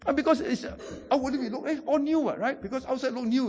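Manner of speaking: talking through real laughter, high-pitched; helpless amusement breaking into the sentence; laughing. Real, not acted. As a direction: giggle through the words as you explain. Amused telling of the boy's mishap.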